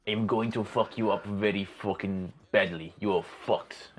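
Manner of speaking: slow, menacing brute voice; gruff Karkov voice. Acted. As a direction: growl the threat out slowly. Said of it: "that's my kinda go-to".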